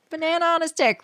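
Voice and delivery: high squeaky silly voice. Pretend. Repeats line in silly voice.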